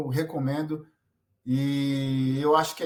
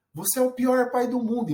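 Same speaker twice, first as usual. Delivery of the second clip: high, lightly voiced sulky daughter; a hint of a cross daughter accusing her dad; angry little girl; 7 semitones higher than usual. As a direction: toss it out like a cross child. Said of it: "ela fala assim pra ele".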